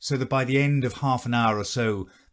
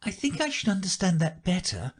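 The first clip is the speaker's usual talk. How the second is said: polite; 9 semitones higher than usual. A narrator's reading. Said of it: "Alice said very politely".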